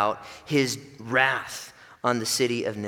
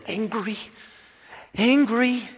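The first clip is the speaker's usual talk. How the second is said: high, loud, slow furious shout; 13 semitones higher, 9 dB louder, slower than usual. Acted. Jonah shouts his fury back at God, high and loud. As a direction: explode with rage. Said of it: "Jonah's response is".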